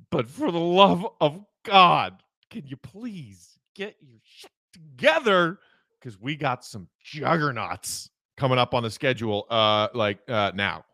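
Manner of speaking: pleading with Vooch to fix his shooting; mock exasperated plea. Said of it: "That's where I say".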